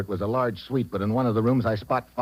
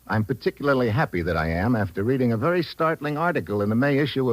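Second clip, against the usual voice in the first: earnest sponsor pitch, sales voice; ad read; 3 semitones lower than usual. Acted. Star steps out of role to pitch to salesmen, earnest ad read. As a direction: sell the cereal sincerely.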